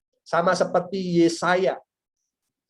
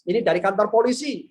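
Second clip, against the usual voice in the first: raised, put-on official phone voice; mock police call, pitched up; prank police caller; 5 semitones higher, 4 dB louder than usual. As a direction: announce yourself as the police for a prank. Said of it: "saya bilang".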